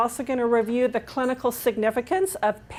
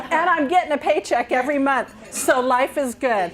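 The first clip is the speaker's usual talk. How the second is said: laughing; 4 semitones higher, 4 dB louder than usual. Real, not acted. Joking about paycheck.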